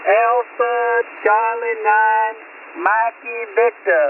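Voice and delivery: slow and deliberate, spelling it out; slow spelled-out call sign. Real, not acted. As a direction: say each letter slowly and clearly. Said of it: "I gotta say it again".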